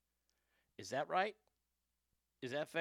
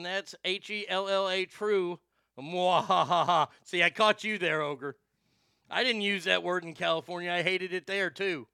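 wild unhinged ranting; 3 semitones higher, 6 dB louder than usual. Real, not acted.

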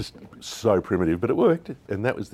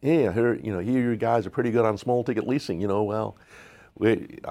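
put-on Texan accent; 4 semitones higher than usual. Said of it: "woman with a Texan accent".

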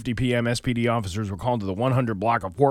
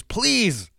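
building higher and louder into a desperate plea; Peter pleading; 6 dB louder than usual. Acted. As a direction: beg harder with every phrase. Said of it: "and says".

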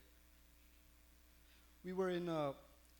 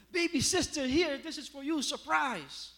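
put-on high, loud excited child voice; little boy voice; 9 semitones higher, 9 dB louder than usual. Nephew handing his baby sister a gift, in a high excited child voice.

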